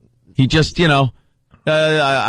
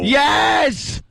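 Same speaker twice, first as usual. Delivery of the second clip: emphatic yes. Real, not acted.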